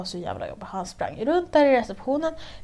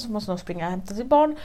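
ordinary talk, nothing marked

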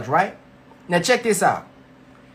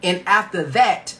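over enunciating; slower than usual. Shown as a demonstration. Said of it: "the scripture says".

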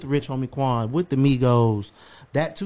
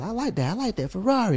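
a rapper quote; 7 semitones higher than usual. Retold or imitated. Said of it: "what a rapper was".

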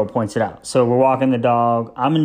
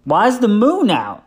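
put-on child asking; 8 semitones higher, 3 dB louder than usual. Son quoted.

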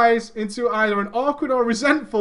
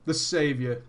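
usual speaking voice

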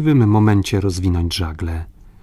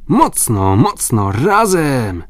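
rallying shouts that rise on the last word; calling out; 5 semitones higher, 4 dB louder, slower than usual. A narrator's reading. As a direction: urge a crew to heave together. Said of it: "zawołał John". (zagrzewające okrzyki komendy)

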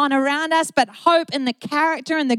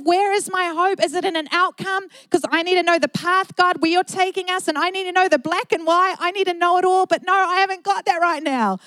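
higher-pitched, insistent plea to God; retold pleading, pitched up; urgent questioning; 6 semitones higher than usual. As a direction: press God for answers, voice raised in pitch. Voicing own anxious questioning of God.

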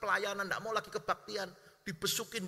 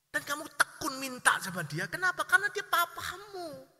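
higher and louder, slowing on the answer; rising emphasis; 8 semitones higher, 5 dB louder than usual. Real, not acted. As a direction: build to the point and land it. Preacher builds to climax. (penekanan yang naik)

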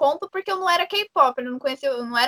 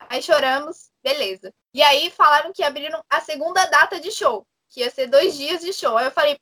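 ordinary delivery

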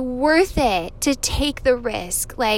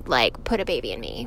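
much lower, jokey deep delivery; mock deep voice; 12 semitones lower, 5 dB quieter, faster than usual. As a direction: drop into a mock deep voice for the punchline. Joking about second date.

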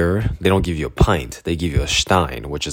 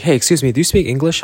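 higher, eager stranger; 9 semitones higher, faster than usual. Retold or imitated. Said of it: "She was like".

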